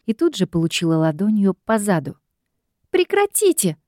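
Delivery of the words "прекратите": high squealed stop; much higher squeal. A narrator's reading. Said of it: "визгнула я".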